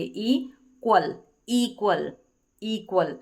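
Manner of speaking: इक्वल stretched very slowly, long ई; slow syllable demo. Shown as a demonstration. Teacher splitting इक्वल for students, slowly. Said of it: "ई का लंबा उच्चारण यहीं से break कर देंगे".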